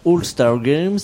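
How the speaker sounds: All-Star Games in a lightly English accent; a French speaker trying an English accent. Shown as a demonstration. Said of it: "J'ai un accent anglais absolument pourri".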